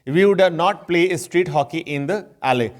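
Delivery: very slow, careful English example sentence; slow example read. Shown as a demonstration. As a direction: read each word out slowly for the class. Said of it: "teacher reads example slowly". (धीरे-धीरे उदाहरण वाक्य पढ़ना)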